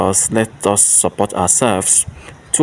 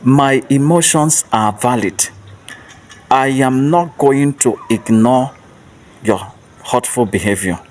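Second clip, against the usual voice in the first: slow, firm declaration, each word weighed; loud and clear; 3 semitones higher, slower than usual. Shown as a demonstration. Host leads listeners in an affirmation, slow and firm. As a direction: state it slowly like a vow. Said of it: "say it loud and clear".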